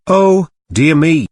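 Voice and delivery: high, loud and slow breathless gasp. A narrator's reading. Ruth answers Helen breathlessly, high and loud. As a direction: gasp it out, caught off guard.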